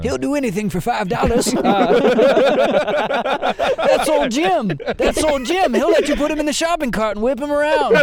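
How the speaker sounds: put-on high, wheezy old-timer cackle; old prospector. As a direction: play a rambling old gold miner. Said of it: "that's my old prospector voice".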